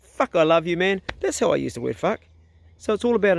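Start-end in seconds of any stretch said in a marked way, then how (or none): 0.0-1.0 happy swearing. Shown as a demonstration. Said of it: "I'm always like".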